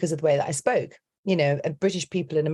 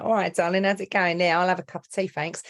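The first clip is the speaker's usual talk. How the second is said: put-on chirpy London accent, slightly higher; 3 semitones higher than usual. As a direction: slip into a friendly Londoner's voice. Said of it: "when I'm down in London".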